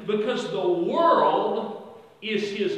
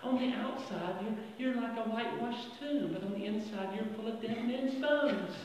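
much softer, unruffled reply; calm quiet retort; 9 dB quieter than usual. Retold or imitated. Walter Martin calmly answering the screaming lady, soft. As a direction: answer her softly, with a smile.

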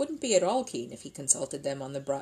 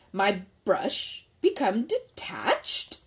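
Paddington's slow, loud, bitter cry; bitter exclamation; 3 semitones higher, 6 dB louder, much slower than usual. Acted. Bear wails about his lost brush, slow and bitter. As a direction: drag out the dismay, louder. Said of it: "exclaimed Paddington bitterly".

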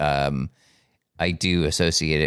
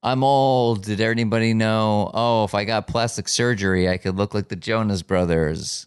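hack comic voice. Retold or imitated. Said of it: "of the caliber of".

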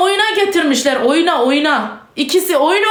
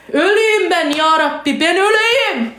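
despairing outburst; 3 semitones higher, slower than usual. Real, not acted. Mother wishing herself dead over the betrayal, despairing. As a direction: wail that climbs into a curse. Despairing cries turning to cursing.

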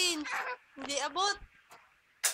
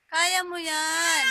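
louder cheer. Real, not acted.

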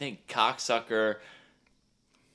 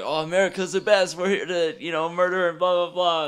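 mock gushing tourists; 10 semitones higher, 5 dB louder than usual. Mocking gushing murder tourists.

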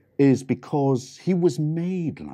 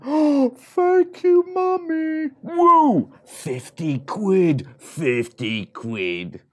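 very high, loud, slow squeal; excited piglet; 7 dB louder, slower than usual. Acted. Third piglet thrilled with mummy's gift, high squeal. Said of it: "the third little pig".

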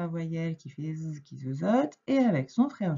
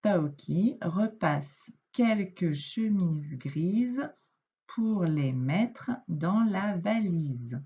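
the whole sentence read smoothly but slowly; slow fluent reread; slower than usual. Shown as a demonstration. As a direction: reread it in one slow flowing line. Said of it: "je te relis cette phrase".

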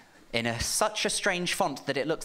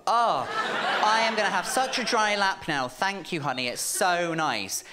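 fake delight; 3 semitones higher than usual. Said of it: "And I go".

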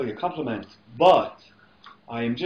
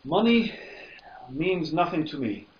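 whisper. Acted. Wong's serene line.

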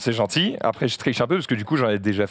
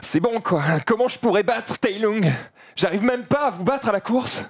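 panda voice. Acted. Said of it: "je fais le panda".

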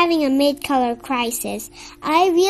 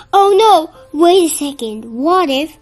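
startled cartoon panic; sudden panic; 2 semitones higher, 6 dB louder than usual. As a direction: realize the worst and blurt it out. Pink panics about not being a color.

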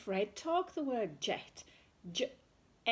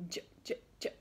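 soft sound demo; 5 dB quieter, much faster than usual. Shown as a demonstration. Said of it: "this is what it looks like".

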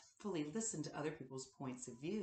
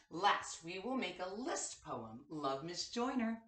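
put-on reading to children. Reads morning message to class.

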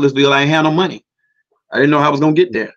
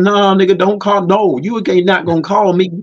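wife telling him off, voice pitched higher; higher, heated scolding of the husband on the phone; angry wife; 4 semitones higher than usual. Retold or imitated. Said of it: "She said".

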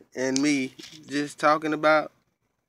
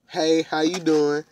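put-on slow, smooth opener to a girl; smooth pickup line; 4 semitones higher than usual. Shown as a demonstration. Uncle demonstrating a smooth pickup line to a girl, slow and suave. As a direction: ease into it like a smooth talker. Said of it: "How about you say".

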